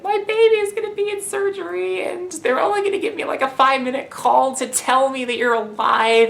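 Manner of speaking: very high, fretful mock-mother voice; high-pitched impression of an anxious mother; imitating panicked mom. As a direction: worry aloud like an overwrought mom. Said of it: "she's freaking out".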